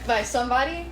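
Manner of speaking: Chicago vowel in somebody; Chicago accent. Real, not acted. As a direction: lets a Chicago accent slip out. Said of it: "Your Chicago accent came out right there".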